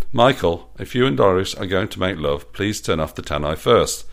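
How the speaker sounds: loud megaphone call; through a megaphone. Acted. Roger calls up to Michael via megaphone, loud. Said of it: "He had a megaphone in his hand".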